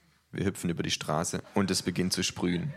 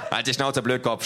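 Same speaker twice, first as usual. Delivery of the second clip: loud gruff thug shout; 6 semitones higher, 5 dB louder than usual. A narrator's reading. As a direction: yell him down. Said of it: "schreit der Dicke". (laut geschrien)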